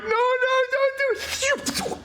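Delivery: very high, squealing protest; hammed-up high-pitched panic; acted alarmed plea. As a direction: beg frantically in a squeaky voice. Voices onlookers seeing the dart coming.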